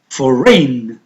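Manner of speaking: FOREIGN said carefully with no G sound; silent G. Shown as a demonstration. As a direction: model FOREIGN, leaving the G silent. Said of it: "So G is a silent".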